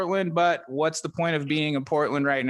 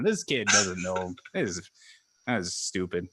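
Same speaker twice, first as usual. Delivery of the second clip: normal talking voice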